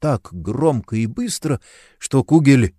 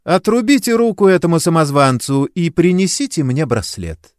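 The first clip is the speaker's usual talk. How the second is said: повелительно; 7 semitones higher, 4 dB louder than usual. A narrator's reading. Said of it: "повелительно подозвала сержанта".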